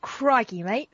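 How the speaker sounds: mock Aussie catchphrase, playful; hammed-up Australian. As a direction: play up the Australian cliché. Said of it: "Throw another shrimp on the barbie".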